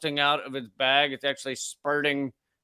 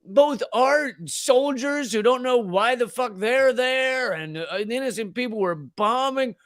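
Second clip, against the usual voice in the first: squeaky demo; 7 semitones higher than usual. Shown as a demonstration. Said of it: "it should be squeaky".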